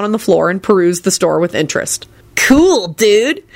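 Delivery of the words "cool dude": high-pitched, delighted dude; gleeful. A narrator's reading. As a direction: marvel gleefully. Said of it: "he said gleefully".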